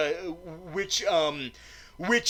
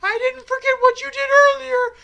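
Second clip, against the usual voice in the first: piercingly high cartoon mouse falsetto; Mickey; 5 dB louder than usual. Mouse showing Bond a hidden hideout, irritating squeaky mouse impression. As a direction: squeak loudly, ending on a high "Oh!". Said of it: "the little mouse is like".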